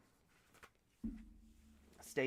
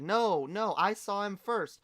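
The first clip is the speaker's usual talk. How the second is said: high, loud fake-Canadian objection; put-on Canadian bickering, pitched up; bad Canadian accent; 6 semitones higher, 4 dB louder than usual. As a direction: insist in a hammed-up Canadian accent. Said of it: "do a good Canadian accent".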